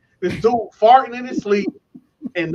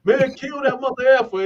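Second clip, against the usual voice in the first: mild mock holler; retold hollering down the tier; 6 semitones higher than usual. Inmates calling down the tier at a snorer, mock hollering. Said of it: "everybody hollering down the tier".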